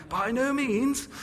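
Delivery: high, slow haughty dowager voice; plummy aristocratic lady, drawn out; imperious plummy grande dame. Retold or imitated. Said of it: "makes him sound a bit like the Dowager from Downton Abbey".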